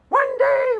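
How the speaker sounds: high, prissy mocking voice; mock Patricia Churchland. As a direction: squeak it out like a smug professor. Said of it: "literally word for word".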